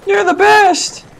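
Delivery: high, slow, gushing thanks; grateful villager voice. Retold or imitated. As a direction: play a fawning caravan driver. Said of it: "that caravan's like".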